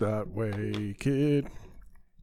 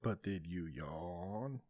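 much softer, slow question; quiet; 8 semitones lower, 16 dB quieter, slower than usual. Real, not acted. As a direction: ask it again barely above a murmur. Same question asked twice.

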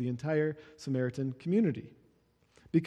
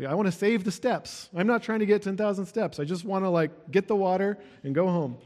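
practical woman; 4 semitones higher than usual. Acted. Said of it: "she's very practical, isn't she?".

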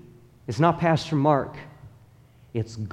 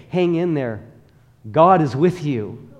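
emphatic encouragement; 2 semitones higher, 6 dB louder than usual. Shown as a demonstration. Preacher showing the congregation the better thing to say, emphatic. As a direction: say it like the better answer, with conviction. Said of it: "How much better that I say".

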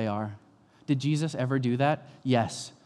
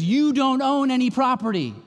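lightly voiced firm father; a hint of a dad shutting it down; 10 semitones higher, 4 dB louder than usual. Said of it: "he says".

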